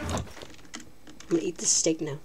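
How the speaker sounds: slow, soft breathy whisper; hushed whisper. Real, not acted. Gamer hiding from Santa, whispering slowly to stay unheard. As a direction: whisper so nobody hears.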